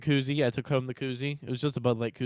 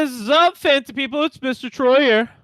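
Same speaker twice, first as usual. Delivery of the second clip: announcer voice; 11 semitones higher, 10 dB louder than usual. Pretend. Playful announcer-style greeting.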